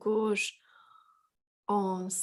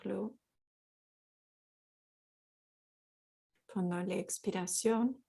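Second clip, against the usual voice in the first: calm, unhurried guidance with long pauses; guided yoga; 4 dB quieter than usual. Real, not acted. Guides a gentle yoga practice.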